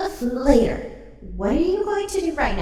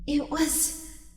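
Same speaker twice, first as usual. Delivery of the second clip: slow, lower, relishing delicious; savouring; 3 semitones lower, much slower than usual. Acted. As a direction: drag out the relish. Twilight savours stolen love.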